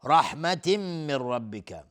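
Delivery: رحمت من recited as "rahmatim-min" with a held hum; merging with ghunna. Shown as a demonstration. Teacher showing tanween before meem, nasal merge. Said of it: "تنوین بعدش میم، ادغام با غنه".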